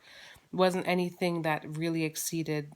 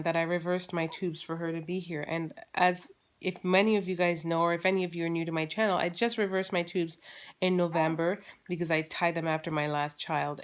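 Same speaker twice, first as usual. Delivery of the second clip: ordinary delivery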